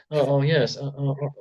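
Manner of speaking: halting, stammered actor impression; Jeff Goldblum. Co-host imagining a celebrity Slappy, mock Goldblum stammer. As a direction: stretch out the ohs and uhs, hesitantly. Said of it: "a Jeff Goldblum Slappy".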